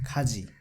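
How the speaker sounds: Khaji, aspirated K start; Korean word Khaji. Shown as a demonstration. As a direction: say Khaji with a breathy K. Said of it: "the pronunciation is K".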